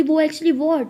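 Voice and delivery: sharp, pressing question; impatient echo. Acted. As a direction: throw the hesitant words back as a challenge. Sia throws the words back impatiently.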